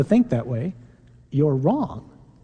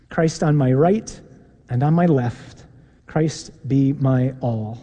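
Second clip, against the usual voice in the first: led prayer. Acted. Priest leading the congregation in the Saint Patrick prayer, steady and measured. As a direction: pray it aloud so the congregation can follow along.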